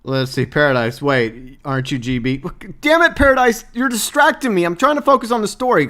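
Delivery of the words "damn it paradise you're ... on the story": mock annoyance. Playfully scolding a chatter.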